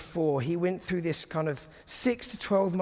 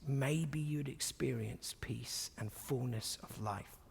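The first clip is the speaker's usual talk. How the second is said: slow hushed whisper; 5 semitones lower, 12 dB quieter, slower than usual. Real, not acted. Preacher whispering a closing hope to the congregation, slow and hushed. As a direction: breathe it out slowly and gently. Gentle close to a prayerful point.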